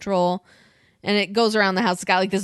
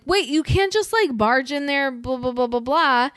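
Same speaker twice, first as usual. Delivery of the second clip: higher-pitched imitation of an alarmed objection; mock protest; 6 semitones higher than usual. Retelling Zoe trying to stop her boyfriend, mock protest. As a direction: object in a raised voice, trailing into blahs.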